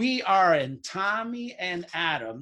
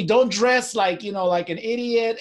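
mock scolding; 4 semitones higher, 5 dB louder than usual. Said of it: "he told me".

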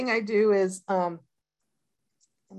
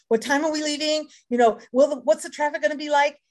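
imitating nervous husband; 7 semitones higher, 3 dB louder than usual. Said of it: "he gets very nervous about".

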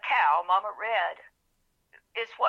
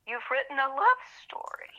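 whispered; 5 semitones higher than usual. Retold or imitated. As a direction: hush it like a secret. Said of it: "And he said".

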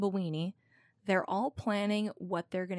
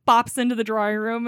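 ordinary delivery

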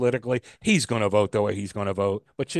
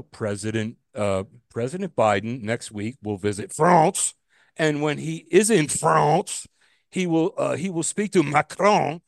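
mock French accent; 3 semitones higher, 4 dB louder than usual. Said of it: "This would be like Wolf Blitzer saying".

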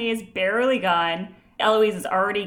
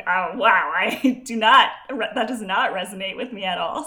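louder, half-laughing disbelief; mock incredulous; 6 dB louder than usual. Telling cohost about a kids line, mock incredulous. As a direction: play up a put-off reaction, louder. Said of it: "So I was like".

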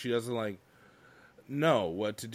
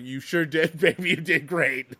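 mock praise; 6 semitones higher, 7 dB louder than usual. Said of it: "I was like".

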